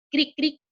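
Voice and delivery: cric, cric said high like a chirping cricket. Shown as a demonstration. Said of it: "El sonido del grillo".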